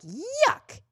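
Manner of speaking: high, squeaky mock disgust; disgusted yuck. A listener reacting to a bad recommendation, mock disgusted. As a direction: recoil from something gross.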